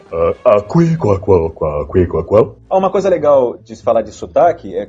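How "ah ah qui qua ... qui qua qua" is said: duck quack. Acted. Quacking duck voice after laughing.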